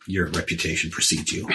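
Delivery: smooth flatterer. Acted. Player in character, lower.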